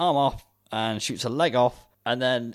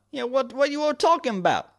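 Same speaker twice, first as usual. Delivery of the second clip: high, hammed-up American cop; put-on American accent; 4 dB louder than usual. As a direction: redo it in a broad mock American accent. Redoes cop's line in put-on accent.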